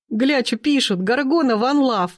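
high, cackling-style glee without laughter; gleeful teenagers. A narrator's reading. Teenage gang reading comments aloud, high and gleeful. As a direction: crow it out high and amused. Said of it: "загоготала компашка".

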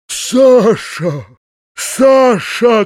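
loud, high, despairing call; desperate shout. A narrator's reading. Uncle trying to silence Саша, desperate high shout. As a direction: shout the name to stop her. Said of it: "кричал в отчаянии дядя".

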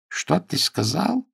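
high, slow, stunned question; aghast disbelief. Acted. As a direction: drag it out in horror. Manager horrified by the refusal.

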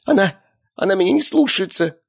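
high, helpless whimper; acted tearful wail in a high voice; sobbing lady. A narrator's reading. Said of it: "всхлипнула в ответ дамочка".

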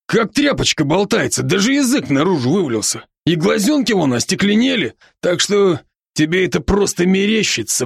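бодрый, чуть выше голос друга-оборотня; успокаивает друга, слегка играя роль; Рон, заботливый друг. Acted. Ron's voice again. (оборотень Рон уговаривает друга дышать)

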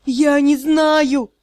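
slow desperate cry; shouting. Acted. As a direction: cry it out in panic. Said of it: "закричал Скаэн".

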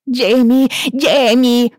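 put-on high, loud wailing sobs of a little girl; sobbing child. Little girl sobbing for her brother, loud and high. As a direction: wail the name through tears. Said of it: "рыдала Аманда".

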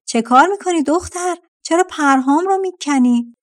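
put-on jolted awake, yells at the girl; shouting vulture. A narrator's reading. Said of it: "فریاد زد". (فریاد کرکس از خواب پریده)

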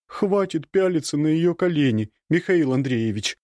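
put-on high grumbling servant girl; grumbling maid. A narrator's reading. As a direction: scold him grumpily. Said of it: "ворчливый голос Маруси". (ворчливый голос)

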